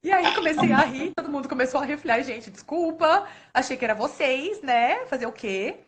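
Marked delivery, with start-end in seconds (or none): 2.2-5.8 laughing apology. Retold or imitated. Librarian apologizes to students after a wrong scolding, laughing. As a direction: sheepishly apologize while laughing.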